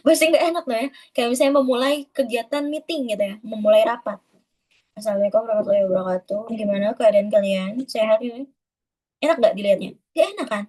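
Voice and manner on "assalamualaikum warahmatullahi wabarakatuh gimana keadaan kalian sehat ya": no expression. Shown as a demonstration. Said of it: "bener-bener nggak ada expression-nya".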